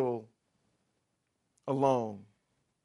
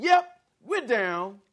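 eager agreement; 3 semitones higher, 5 dB louder than usual. Retold or imitated. Disciples pledging loyalty to Jesus, loud and eager. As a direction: sign on with gusto. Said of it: "all of them said".

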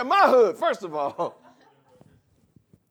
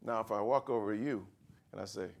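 ordinary talk

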